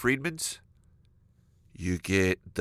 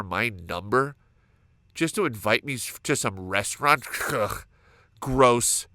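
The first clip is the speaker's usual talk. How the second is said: indignant inner rant, building; fake-offended grumbling about the phone number; mock aggressive rant. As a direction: huff and puff at the nerve of them. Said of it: "aggressive thoughts".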